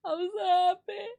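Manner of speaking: high, rising happy cry. Real, not acted. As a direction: sing out the happiness. Repeated joy.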